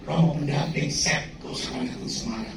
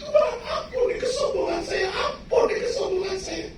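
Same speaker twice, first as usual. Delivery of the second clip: crying out for mercy; 14 semitones higher than usual. Retold or imitated. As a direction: cry out to God for forgiveness. Crying out for forgiveness.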